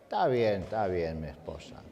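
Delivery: muy bajito y grave, apagándose; resignación tranquila. Retold or imitated. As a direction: contesta manso, dejando caer la voz. El marido paciente responde a los gritos. (marido paciente, imitado en voz baja)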